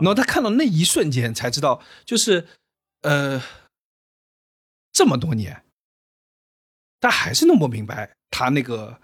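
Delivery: near tears, choked up, breaking mid-phrase. Speaker telling a listener a story about a father, choked up. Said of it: "要哭了，".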